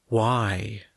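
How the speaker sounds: breathless whispered why. Acted. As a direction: barely voice the question. Shoto asks vulnerably, unvoiced.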